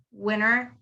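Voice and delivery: winter said as "winner", no T sound; American silent T. Shown as a demonstration. Teacher shows the American winter, silent T. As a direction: drop the T so it comes out "winner". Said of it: "some people also say W I N T E R as winner".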